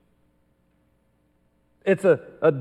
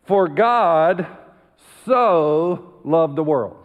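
slow and deliberate, leaning on so; said slowly; much slower than usual. Shown as a demonstration. Preacher slowing down the verse so the church hears it. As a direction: give each word of the verse its weight. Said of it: "We say it so fast".

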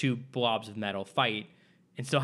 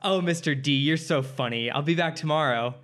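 cheery student; 3 semitones higher, 5 dB louder than usual. Retold or imitated. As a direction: gush like an oblivious kid. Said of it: "And she's like".

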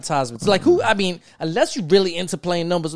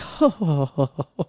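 put-on snooty rich laugh. Showing his future rich laugh, put-on snooty chuckle. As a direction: laugh like a smug millionaire. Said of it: "that's gonna be my laugh too".

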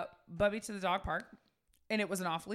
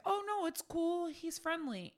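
cheery reassurance; 9 semitones higher, 3 dB quieter, slower than usual. Retold or imitated. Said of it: "And I said".

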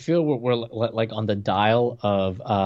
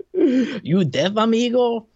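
higher, mocking bouncer in a Hispanic accent; hammed-up Hispanic accent; 12 semitones higher, much slower than usual. Co-host teasingly redoes the bouncer's line, hammed-up Hispanic accent. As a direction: ham up a tough-guy bouncer with a Hispanic accent. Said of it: "am I supposed to be doing a Hispanic accent?".

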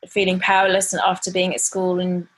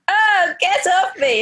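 high, loud, slow mock protest from a tickled kid; giggly daughter protesting; 12 semitones higher, 5 dB louder, slower than usual. Mom kisses daughter, she squeals a high, loud, slow protest. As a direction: squeal it like a child being smothered with kisses. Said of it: "she's like".

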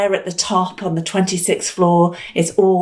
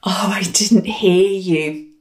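slow breathy whispered reply; slower than usual. Retold or imitated. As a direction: hush it to a whisper. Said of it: "he said".

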